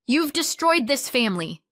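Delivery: high, loud angry accusation. A narrator's reading. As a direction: come back at them loudly, outraged. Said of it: "Jenna came back louder".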